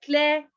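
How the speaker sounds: "cleverer" broken as cle, ve, rer; three separate syllables. Shown as a demonstration. Teacher counting syllables, "cleverer" split in three. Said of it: "three syllables now".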